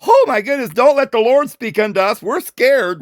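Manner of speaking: mock frightened. Teacher voicing the people fleeing God's voice, mock fright. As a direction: play up the alarm of scared people. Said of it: "people were frightened".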